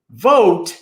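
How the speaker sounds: loud scornful boom. A narrator's reading. Samhain booms back at the boys, loud and scornful. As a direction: scoff at the idea. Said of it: "Samhain boomed".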